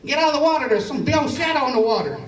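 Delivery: mock a worried call from shore; imitated holler. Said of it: "she hollers at me".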